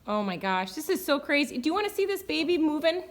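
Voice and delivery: loud, thrilled amazement; excited. Real, not acted. Horse owner to viewers as the foal kicks, excited. Watching the unborn foal kick.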